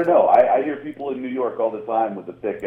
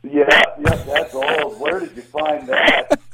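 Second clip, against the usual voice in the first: high, drawn-out laughing disbelief; amused surprise; 7 semitones higher, slower than usual. Real, not acted. Guest reacting to an old poster, amused surprise. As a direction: ask it high and incredulous, about to burst out laughing.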